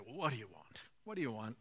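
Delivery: mock brusque "what do you want", pitched low; dismissive question. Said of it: "Jesus could say".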